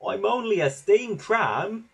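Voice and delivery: high, plaintive little engine; Toby puffing. A narrator's reading. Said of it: "Toby puffed".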